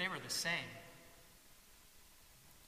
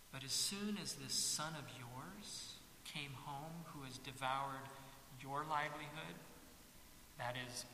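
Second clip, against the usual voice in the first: quiet bitter complaint; 6 dB quieter than usual. Acted. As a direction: grumble your grievance to your father. Older son's bitter complaint.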